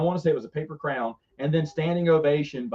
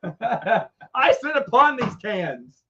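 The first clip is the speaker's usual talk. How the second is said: slow, raised regal pronouncement; pompous monarch on the edge of laughter; hammed-up king; 5 semitones higher, much slower than usual. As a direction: declare it with mock majesty. King boasting of his throne.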